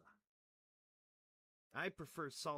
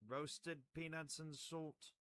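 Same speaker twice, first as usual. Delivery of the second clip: slow emphasis; 4 semitones higher, much slower than usual. Acted. Slow emphatic list of ingredients.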